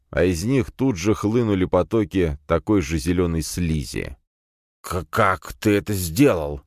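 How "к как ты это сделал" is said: slow trembling stammer; shaken stammer. Acted. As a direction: stutter it out, shaken. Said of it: "старик трясся в приступе".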